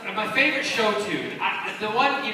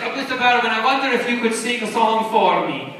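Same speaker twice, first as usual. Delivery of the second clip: louder put-on German accent; mock foreign accent, somewhat raised; German fan's accent; 2 semitones higher, 5 dB louder than usual. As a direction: imitate a polite fan with a wobbly German accent. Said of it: "This is my German accent".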